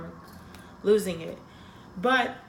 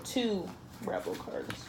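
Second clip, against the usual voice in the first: breathy whisper, slow, almost no voice; whispered to herself; 9 dB quieter, slower than usual. Real, not acted. Reader whispers the drawn cards to herself, slow. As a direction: murmur the card name under her breath. Repeats the card name to herself.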